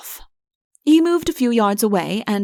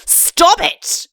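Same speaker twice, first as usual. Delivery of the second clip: shout; 9 semitones higher, 3 dB louder than usual. Acted. Udo shouting on.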